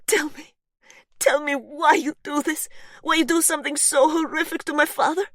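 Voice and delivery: put-on loud, high furious yell in a Polish accent; angry yell, strong accent. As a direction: accuse her, shouting in a Polish accent. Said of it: "Her accent is strong".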